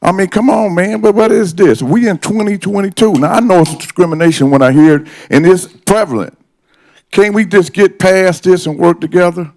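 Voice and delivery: rising upset, pitch climbing high; getting worked up and indignant. Real, not acted. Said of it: "I was trying to stay calm. I'm a little upset".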